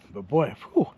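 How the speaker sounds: puffing through burning spice; blowing out heat from a burning mouth; mouth on fire. Real, not acted. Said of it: "my eyes are watering".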